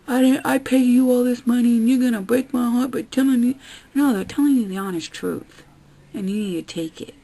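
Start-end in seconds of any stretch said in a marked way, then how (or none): 0.1-3.6 louder whining impression; whiny mock complaint. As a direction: whine like an offended patient. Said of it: "And then you're like".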